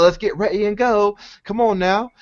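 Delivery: lightly put-on New Zealand accent, teasing; mimicking New Zealand accent. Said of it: "in her accent".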